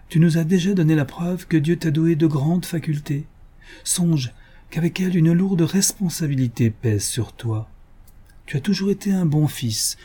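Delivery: a dying mother's grave charge; solemn. A narrator's reading. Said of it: "d'une voix solennelle". (voix solennelle de mère mourante, plus aiguë)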